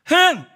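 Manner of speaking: a loud, high, pouting "흥!"; mock offended snort; sulky huff. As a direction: huff like a sulking brother. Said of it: "막 이러면서".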